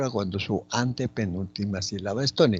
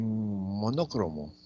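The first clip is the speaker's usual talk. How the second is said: slow, drawn-out "monócromo", stressed on NÓ; teacher's careful "monócromo", leaning on NÓ; 2 semitones lower, 4 dB quieter, much slower than usual. Shown as a demonstration. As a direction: stretch "monócromo" to show its second syllable. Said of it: "en no".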